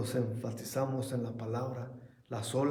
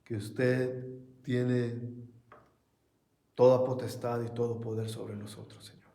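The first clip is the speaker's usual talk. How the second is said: prayer. Acted. Pastor leads closing prayer.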